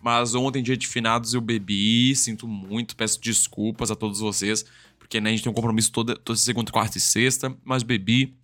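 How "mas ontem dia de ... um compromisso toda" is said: hungover. Real, not acted. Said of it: "hoje eu tô de ressaca".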